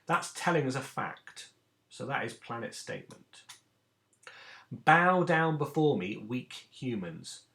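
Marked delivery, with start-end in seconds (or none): 4.7-7.4 slow, loud opening, falling away; hammed-up, drawn-out order; mock command to weak humans. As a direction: proclaim it slowly like a ruler, easing off. Acting out an example command.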